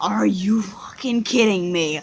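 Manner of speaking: slow, hushed whisper; a stunned mother whispering; disbelieving whisper. Retold or imitated. Mom reacting in disbelief.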